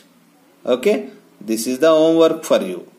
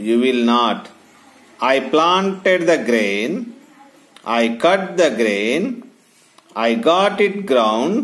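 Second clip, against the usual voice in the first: put-on story reading for children. A narrator's reading. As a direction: read it out phrase by phrase, pausing between. Teacher reads a story to children.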